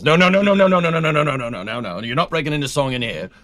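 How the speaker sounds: mock-British comic refusal, tailing down; Monty Python impression. Co-host putting his foot down about the stream, Monty Python impression. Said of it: "that was Monty Python".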